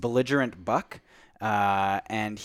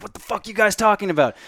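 higher-pitched mock drunk taunt; mock drunk heckler; 8 semitones higher, 3 dB louder than usual. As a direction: pop up with a jeering, higher voice. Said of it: "this voice being like".

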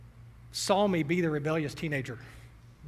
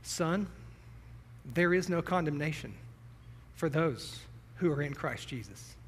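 put-on tender old man; 6 dB quieter than usual. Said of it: "he put his arm on my shoulder and he said".

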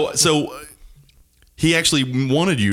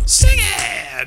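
high shout; 3 dB louder than usual. Acted. Calling out in jingle.

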